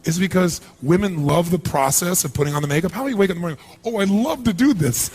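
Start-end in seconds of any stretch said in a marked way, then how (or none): 3.8-5.1 mock delight. Mocks enjoying morning makeup routine.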